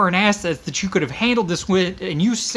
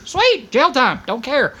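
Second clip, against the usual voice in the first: dismissive retort; 7 semitones higher, slower than usual. Real, not acted. Dismissive reply to critics.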